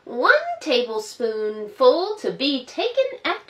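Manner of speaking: gentle storybook narration for little ones; reading to children. A narrator's reading. Storyteller reading Peter Rabbit to children, gently. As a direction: read it like a bedtime story.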